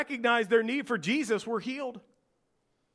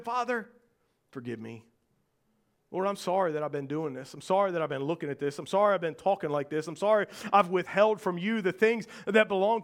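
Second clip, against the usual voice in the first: voicing a prayer; 2 semitones lower, faster than usual. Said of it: "went to the Lord and said".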